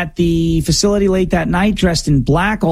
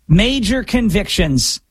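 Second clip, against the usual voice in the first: slow emphatic delivery; 3 semitones higher, slower than usual. Real, not acted.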